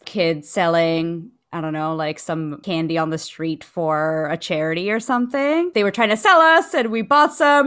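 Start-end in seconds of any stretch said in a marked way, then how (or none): none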